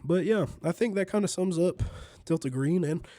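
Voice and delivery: stuffy under-the-weather voice; talking through a blocked nose; nasal sick voice. Real, not acted. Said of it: "my nasally under the weather voice".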